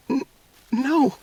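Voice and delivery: high, then a sudden loud cry of no; a girl breaking into disbelief; the daughter, shocked, cries out high and loud; stunned young girl. Acted. Daughter refuses to believe.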